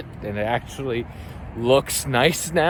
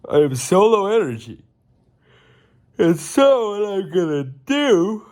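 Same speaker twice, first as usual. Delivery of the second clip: louder, higher, perking up; perked up; 8 semitones higher, 5 dB louder than usual. Real, not acted. Tired vlogger suddenly perking up, louder. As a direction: jolt awake with energy.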